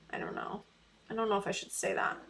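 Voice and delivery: dropped to a near whisper, unsure whether to go on; hushed and hesitant, half to herself; unsure hushed aside. Real, not acted. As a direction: mutter it to yourself, hesitating. Hesitant aside before a hard message.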